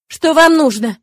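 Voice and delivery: high, loud frightened cry; ringing with fright. A narrator's reading. Girl crying out at the attacking nuns, ringing with fright. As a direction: cry out, scared but ready. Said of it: "звенящим от испуга голосом".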